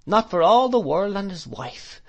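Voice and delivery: high, emphatic fond protest; servant's heartfelt exclamation, pitched well up; crying out. A narrator's reading. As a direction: refuse it with rising fervour. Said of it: "cried Peggotty".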